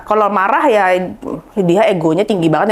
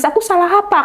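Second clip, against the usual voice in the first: retold crying; 9 semitones higher than usual. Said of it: "Bangun tidur aku nangis".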